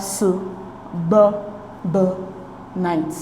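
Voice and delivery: "su, b, b, night" with a clear pause after each piece; syllable by syllable. Shown as a demonstration. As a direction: sound out "su, b, b, night" in isolated beats. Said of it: "we divide the word into its syllables".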